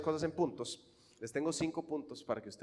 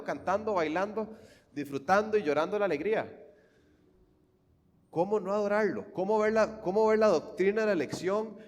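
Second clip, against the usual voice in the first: loud, rising sermon fervour; preaching at full force; 7 semitones higher, 6 dB louder than usual. Acted. Preacher urging his congregation, loud and fervent. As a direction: preach it out, swelling with joy.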